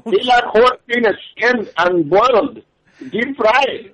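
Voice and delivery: high-pitched mock squawk; mimicked caller voice. Co-host mimics a seller to the host, high mock voice.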